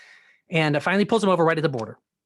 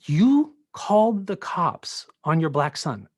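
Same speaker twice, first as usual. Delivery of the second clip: slow, stressed mock yell; retold angry accusation; slower than usual. Friend confronting a parent about calling police, retold angry accusation. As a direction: accuse in disbelief, word by word. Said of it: "he started to yell at me".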